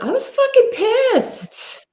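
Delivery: high laughing mock anger, slow; laughing mock fury. Real, not acted. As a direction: laugh through a hammed-up angry claim. Laughing about how angry she was.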